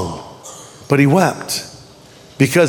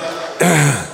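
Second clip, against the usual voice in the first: mock awkward male grunt; low, uncomfortable throat noise; awkward throat clearing; 3 semitones lower, 3 dB quieter than usual. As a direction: clear the throat like a tongue-tied guy. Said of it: "Guys are like".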